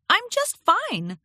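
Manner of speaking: high, drawn-out, unconvincing assurance; fibbing Twilight Sparkle. A narrator's reading. Twilight tells Starlight she is fine, obviously fibbing. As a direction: insist too sweetly, obviously fibbing. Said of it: "She was obviously fibbing".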